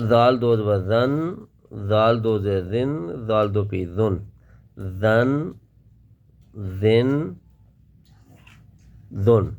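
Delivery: soft ذال, tongue tip between the teeth. Shown as a demonstration. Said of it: "اس کو بھی ہم نرم پڑھیں گے".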